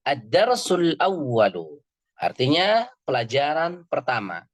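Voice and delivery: Ad-darsul awwalu read slowly and carefully, each word clear; slow classroom demonstration; slow teaching read. Shown as a demonstration. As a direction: model the Arabic slowly for students to repeat. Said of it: "antum bisa melihat ... yang ada di layar".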